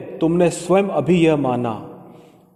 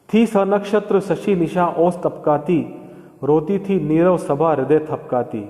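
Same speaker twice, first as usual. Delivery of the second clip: measured, slow verse recital; slow poem recitation. Shown as a demonstration. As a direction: lay each word of थी सनक्षत्र out slowly. Teacher recites verse slowly. (धीमा, लयबद्ध काव्य-पाठ)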